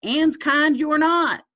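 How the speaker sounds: a hint of a taunting inner voice; snide inner voice. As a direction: sneer the subtext at yourself. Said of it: "You know, subtext".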